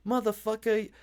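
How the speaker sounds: high-pitched, outraged imitation of the woman; hammed-up scornful refusal; mock indignation. Voices woman angrily refusing him.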